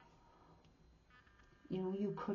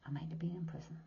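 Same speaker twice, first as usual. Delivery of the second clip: quieter, half-voiced correction; soft near-whisper; 5 dB quieter, faster than usual. Real, not acted. Correcting herself to viewers, a hushed aside. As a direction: pull it back to a hush. Softened repeat of confession.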